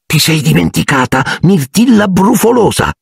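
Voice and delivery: high-pitched needling jibe; lightly voiced taunting poltergeist; mocking taunt. A narrator's reading. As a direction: tease her nastily in a high voice. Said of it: "le sibilò Peeves all'orecchio".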